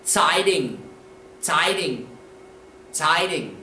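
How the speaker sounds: "Zeitung" said as "tsy-ding", falling; spaced, careful "Zeitung" with long eye vowel; model pronunciation. Shown as a demonstration. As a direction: say "Zeitung" deliberately for learners. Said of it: "Correct pronunciation of this word".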